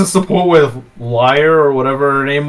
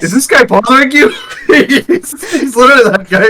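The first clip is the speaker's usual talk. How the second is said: high smug white-knight line through a laugh; mock Redditor voice; 12 semitones higher than usual. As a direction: pitch up and play the eager defender, laughing. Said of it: "Make him sound like a Redditor".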